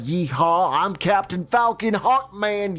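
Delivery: hammed-up gung-ho soldier voice; mock soldiers. Mock pilots cheering as the kids leave. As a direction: cheer it like a cocky pilot, rising high at the end. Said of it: "And they're just like".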